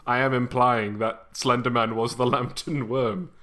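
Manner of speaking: ordinary talk, nothing marked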